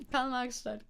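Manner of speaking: light mock Saxon accent; amateur Saxony accent; Saxony accent attempt. Shown as a demonstration. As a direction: say the town name with a Saxon tinge. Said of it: "I tried, okay? I tried".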